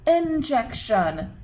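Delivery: "Injection" drawn out slowly. Shown as a demonstration. Teacher sounding out a word for children, slow "Injection". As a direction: stretch "Injection" so each sound is heard. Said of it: "Let's say it slowly".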